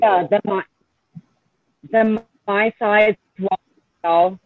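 choppy audio, cutting in and out; bad connection. Real, not acted. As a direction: voice breaking up over a bad line. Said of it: "still not getting it".

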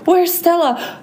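high, anxious waking question; gulping air. A narrator's reading. Ruby wakes asking for her friend, gulping air. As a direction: ask it high, just out of a nightmare. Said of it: "gulping air".

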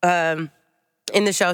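talking while chewing; eating a granola bar; mouth full. Real, not acted. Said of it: "Sorry, I'm eating a granola bar".

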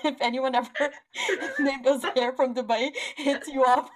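talking through laughter; giggly mock public warning; laughing call-out. Real, not acted. Jokingly calling out a disliked man.

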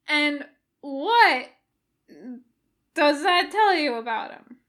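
loud high prodding question; leading Jim. A narrator's reading. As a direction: lead him on.

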